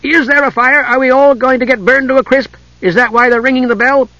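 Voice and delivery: high, bright cry; eager exclamation. A narrator's reading. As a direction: jump in with glee. Tass gleefully imagining a fire.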